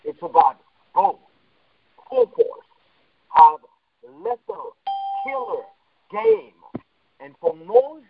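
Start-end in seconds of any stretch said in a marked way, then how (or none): 2.1-8.1 muffled, as if through a wall; talking with a muffled mic. Real, not acted. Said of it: "Hey, you sound muffled".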